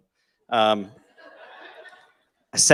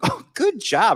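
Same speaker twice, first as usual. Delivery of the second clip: mock praise; 12 semitones higher, 4 dB louder, slower than usual. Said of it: "I remember saying something like".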